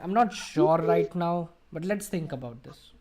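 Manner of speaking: slow, unsure answer with drawn-out words; hesitant reply. Shown as a demonstration. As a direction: stall for time before answering. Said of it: "So that's hesitation".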